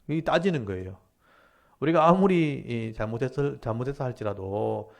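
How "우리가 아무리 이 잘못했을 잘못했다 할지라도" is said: indignant protest, retold; arguing with God. Prophet argues with God about wicked invaders, challenging. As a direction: press the objection into a pointed question. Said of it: "하고 막 따지는 겁니다".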